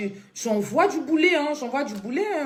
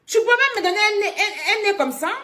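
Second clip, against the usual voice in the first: much higher, louder, laughing incredulity; laughing disbelief; 9 semitones higher, 4 dB louder than usual. Real, not acted. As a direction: cackle at the absurdity. Laughing disbelief about a nose.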